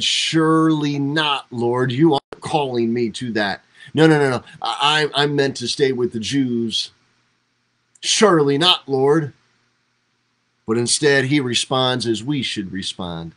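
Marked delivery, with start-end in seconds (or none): 0.0-9.3 pleading protest. Retold or imitated. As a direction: protest like a man who won't budge. Peter voiced refusing the Romans.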